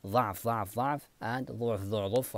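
ضعف said with damma, then ضعف with fatha, alternating; both Hafs readings. Shown as a demonstration. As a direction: alternate the two vowelings of ضعف. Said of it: "for Hafs, both أوجه".

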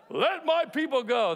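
slow, booming epic-film Moses; Charlton Heston Moses. Retold or imitated. Preacher mimics Charlton Heston's Moses commanding Pharaoh, slow and booming. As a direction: proclaim it slowly like a movie prophet. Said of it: "Charlton Heston was like".

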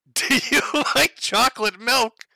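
high, loud and sing-song; mock creepy voice. Imitating the poster asking the stranger about milk. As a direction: ask it like an eager child.

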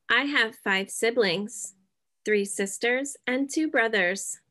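clear, even sentences for students to echo; model sentences. Shown as a demonstration. Teacher modeling family sentences for students to repeat, clear and even. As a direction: say each line cleanly so the class can copy it. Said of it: "You can repeat after me".

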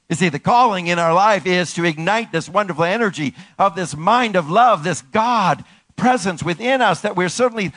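forceful, exhorting sermon delivery; impassioned preaching. Real, not acted. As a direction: build with fervor, pitch held high.

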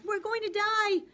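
very high, loud shriek of panic; panicked yelling. A narrator's reading. Passengers running in circles, shrieking in panic. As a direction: scream it like the world is ending. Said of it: "running around in circles yelling".

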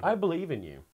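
soft unvoiced whisper. Real, not acted. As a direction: breathe it as a whisper. Whispered encouragement.

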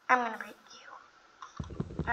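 slow unvoiced whisper threat; menacing whisper. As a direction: whisper it slowly like a villain.

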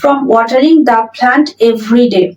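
very slow, word by word dictation; slow model sentence. Shown as a demonstration. Teacher reading the example sentence aloud to students, very slow and clear. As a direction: spell it out slowly for learners. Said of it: "from watering অর্থাৎ গাছে জল দিয়ে দিয়ে".

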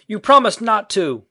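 loud, high, drawn-out accusation; hurt protest. A narrator's reading. Peter accuses Wendy of breaking promise, loud slow protest. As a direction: cry it slowly in protest.

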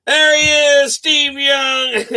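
high, loud excited call. Real, not acted. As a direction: cheer the big pull. Excited at a pull.

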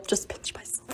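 whisper. Real, not acted. Late-night whispering at 3 AM.

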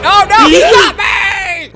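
loud crying shout of panic; panicked wail. Real, not acted. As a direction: wail as he gets caught. Caught by baby, crying shout.

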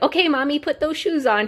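put-on high, eager child's voice; excited little son. Mom quotes her son wanting shoes worn, excited child voice. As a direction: pitch it up like a thrilled kid. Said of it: "He was so excited about it".

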